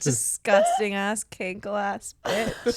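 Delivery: slow, drawn-out mock disgust; hammed-up contempt, dragged out. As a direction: savour each insult slowly.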